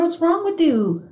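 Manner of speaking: imitating his own angry outburst; retold angry yell. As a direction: snap at him as if startled by the slap. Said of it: "And I was like".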